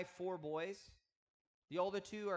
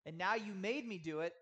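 frustrated complaint; 2 semitones higher, 3 dB louder than usual. Acted. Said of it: "he's almost saying to the Lord".

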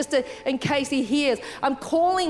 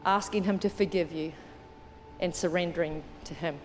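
gently lowered, reverent invitation; altar call; 4 semitones lower than usual. Real, not acted. Leads an altar call, eyes closed.

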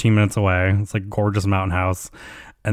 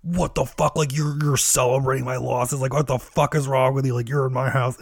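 higher-pitched imitation of indignation; mock outrage; 4 semitones higher than usual. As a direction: play at being incensed. Retold outburst of an angry loser.

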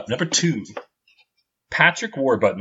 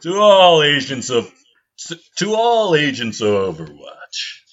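Winston demo reading; slower than usual. Shown as a demonstration. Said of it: "I was hoping it was gonna sound like".

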